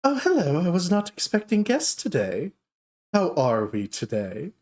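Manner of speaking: dark elf shopkeeper greeting surprise customers, high and gushing. Acted. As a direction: coo at unexpected guests. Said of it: "and she goes".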